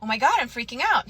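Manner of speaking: retold mock panic, pitch lifting in places; put-on "oh my God" alarm, lightly done; feigned freak-out. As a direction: act mildly flustered, faking a panic. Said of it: "I start kind of freaking out".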